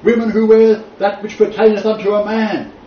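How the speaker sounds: high, loud, declaimed scripture; hammed-up thundering of an old verse; mock preacher. Teacher mocking the writer's use of Leviticus, mock preaching.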